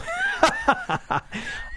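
high bright laugh; demo laugh. Shown as a demonstration. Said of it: "I've used my voice in three different ways".

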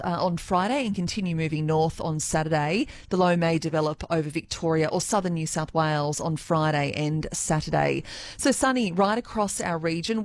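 even, measured weather report; weather forecast read. Acted. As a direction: read the forecast like a radio presenter.

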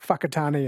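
"Whakatane" with its WH pronounced like F; F sound starting "Whakatane". Shown as a demonstration. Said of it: "the W H is pronounced F".

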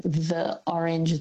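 "the orange" with the weak schwa "the" even before the vowel; slow "thuh orange" without the linking "thee"; one-way the. Shown as a demonstration. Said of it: "in one way".

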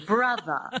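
"Brother" ending in a schwa; transatlantic dropped R. Shown as a demonstration. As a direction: drop the final R of "Brother". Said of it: "you drop the R and you make it a schwa".

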